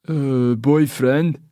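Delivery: slow, loud pushy local; Scottish pub man. Acted. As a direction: lean in and drawl the question. Man probes her.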